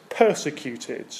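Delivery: "persecuted." drawn out slowly, every syllable weighted; slow emphasis. Shown as a demonstration. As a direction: linger on "persecuted." as the key word. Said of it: "the repeated word is this".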